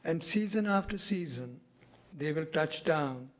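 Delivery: measured poem recital, pausing after each phrase; deliberate phrases that fall away at the close; poetry reading. Acted. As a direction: read your poem to an audience, letting each image settle. Reads own poem aloud.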